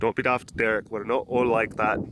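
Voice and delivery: put-on Scottish-leaning Irish accent; Irish accent, slipping into Scottish. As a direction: chide in a wobbly Irish-Scottish brogue. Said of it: "That's more Scottish".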